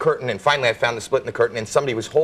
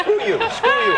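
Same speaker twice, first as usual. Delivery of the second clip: high squeaky voice. Acted. Bobby voice retort.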